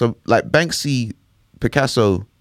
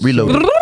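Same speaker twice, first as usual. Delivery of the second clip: high squeaky rewind noise; tape rewinding; 13 semitones higher, 4 dB louder than usual. Pretend. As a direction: mimic a tape spooling back fast. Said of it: "I was just doing a rewind noise for you".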